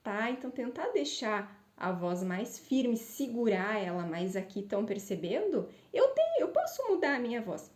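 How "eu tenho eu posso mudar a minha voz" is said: much higher and faster, voice floating up; high sliding voice. Shown as a demonstration. Therapist showing students an unanchored high voice, much higher. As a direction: let the voice drift up high. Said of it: "segurar ela aqui".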